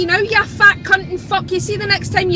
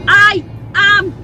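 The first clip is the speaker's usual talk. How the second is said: livid rant; 2 semitones higher than usual. Real, not acted. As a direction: let the anger boil over. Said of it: "I'm doing a ranty tanty".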